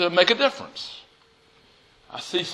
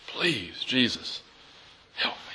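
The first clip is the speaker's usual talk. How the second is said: pleading; 4 semitones lower, 9 dB quieter than usual. Acted.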